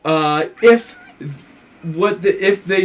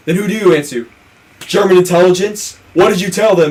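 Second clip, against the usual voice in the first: raised, higher accusing questions; retold angry demand; mock interrogation; 3 semitones higher, 3 dB louder than usual. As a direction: press harder with each question, acting it out.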